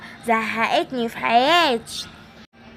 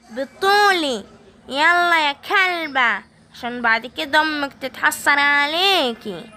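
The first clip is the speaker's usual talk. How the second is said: gloating evil granny; slower than usual. Acted. Evil granny gloating over her captive, slow and wicked. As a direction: savour every cruel word.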